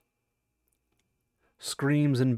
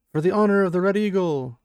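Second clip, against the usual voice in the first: war cry; 6 semitones higher, 6 dB louder than usual. Acted. War cry during charge.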